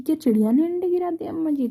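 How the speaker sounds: fearful, sad asking. Retold or imitated. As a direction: ask mother meekly, voice lifted and worried. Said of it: "डरते हुए, दुखी होते हुए बोलती है". (ऊँची, डरी-सहमी और दुखी आवाज़ में सवाल)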